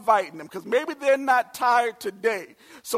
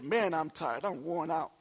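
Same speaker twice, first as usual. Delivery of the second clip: softer, tired mumble; mumbled under breath; 4 semitones lower, 6 dB quieter than usual. Retold or imitated. Talking to his sisters, a quiet tired mumble. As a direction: mutter it to yourself. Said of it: "I just mumbled under my breath".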